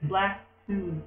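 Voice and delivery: "Splatoon" drawn out as "Splack-toon"; slowly mangle "Splatoon" with an added k; kids' mispronunciation. Retold or imitated. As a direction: imitate kids saying "Splatoon" wrong, as "Splack-toon". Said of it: "they say Splatoon".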